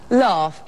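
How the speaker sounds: "laugh" as "lawf", vowel far back; "laugh" with a rounded British back vowel; open back vowel. Shown as a demonstration. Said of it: "much more open in the back of the mouth".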